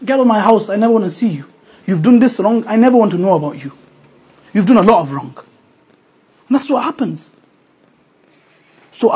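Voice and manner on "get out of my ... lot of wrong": angry parent. Retold or imitated. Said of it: "they mean it".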